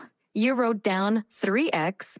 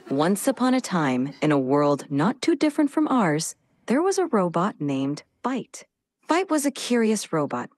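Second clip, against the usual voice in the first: bedtime story narration. Acted. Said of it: "tell him a bedtime story".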